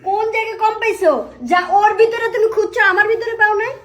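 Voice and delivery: hurt accusation. Acted. Wife confronting cheating husband.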